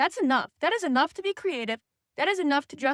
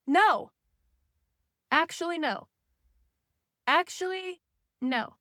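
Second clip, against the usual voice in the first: sharp no; emphatic no; 4 semitones higher, slower than usual. Real, not acted. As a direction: shut the excuse down. Rejecting jealousy excuse.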